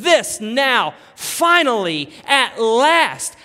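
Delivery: loud, high, long-held words; frustrated shout of relief; Adam shouting. Acted. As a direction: cry it out with pent-up frustration. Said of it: "Adam is frustrated".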